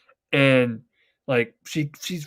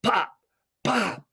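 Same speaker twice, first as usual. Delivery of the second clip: mock gunshots; 6 semitones higher than usual. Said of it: "you hear".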